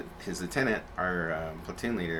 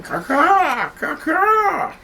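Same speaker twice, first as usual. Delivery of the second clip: high piercing bird cry; hawk screech; 13 dB louder, much slower than usual. Retold or imitated. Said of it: "he's just screaming".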